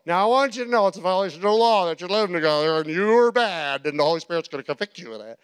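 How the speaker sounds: fast, lecturing condemnation; mock the finger-wagging preacher; preachy scolding. Shown as a demonstration. Preacher mocking a condemning Jesus who scolds the woman, fast and preachy. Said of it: "He didn't go".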